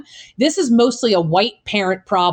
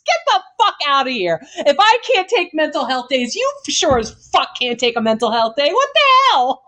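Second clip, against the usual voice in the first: outraged disbelief; 5 semitones higher than usual. Retold or imitated. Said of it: "I'm like".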